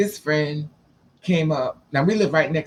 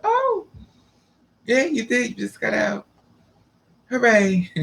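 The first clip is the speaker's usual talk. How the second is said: high, mock-excited cheer; sarcastic cheer; 6 semitones higher than usual. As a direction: fake enthusiasm, pitched up. Mock celebration.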